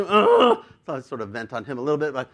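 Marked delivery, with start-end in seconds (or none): 0.0-0.6 high, loud groan of frustration; exasperated groan. Retold or imitated. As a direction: groan as words fail you while venting. Venting at the manager's conduct.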